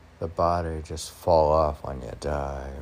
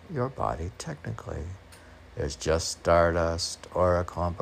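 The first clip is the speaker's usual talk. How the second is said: measured recital of a poem; steady spoken-word poem delivery; poem reading. Acted. Reads poem lines again.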